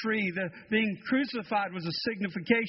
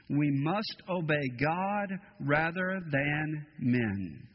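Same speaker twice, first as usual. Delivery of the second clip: slow, firm and grave; solemn resolve; 3 semitones lower, slower than usual. Acted. The apostles answer the council, slow and resolute. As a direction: let each word land with conviction.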